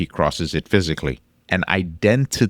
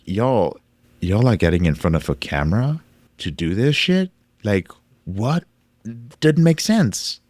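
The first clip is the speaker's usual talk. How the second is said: can't believe what they're seeing; incredulous disbelief; 5 semitones higher than usual. Retold or imitated. Mock reaction to porn performers.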